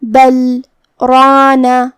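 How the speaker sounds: بل رانا with a short stop after بل and no breath; saktah pause. Shown as a demonstration. Teacher demonstrates the breathless saktah stop. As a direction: pause briefly on بل, then go straight on to رانا. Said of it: "ہمیں اپنی سانس یہاں بالکل نہیں لینا ہے".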